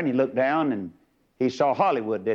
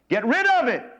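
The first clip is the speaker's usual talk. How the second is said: laughing; 10 semitones higher, 4 dB louder than usual. Real, not acted. Laughing during punchline.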